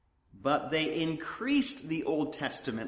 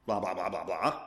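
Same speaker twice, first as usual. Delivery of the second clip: mock filler; 8 semitones lower than usual. Filler standing in for the law.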